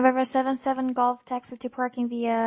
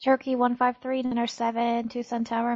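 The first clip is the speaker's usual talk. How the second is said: crackly military radio. Real, not acted. Controller radio landing clearance.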